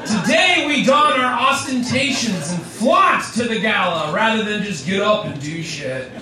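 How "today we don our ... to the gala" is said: town crier. Acted. Proclamation continues.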